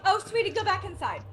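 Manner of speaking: quick, softly coaxing a pet; light, hushed fussing. Acted. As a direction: shoo a little creature kindly. Davina soothing the owlbear cub.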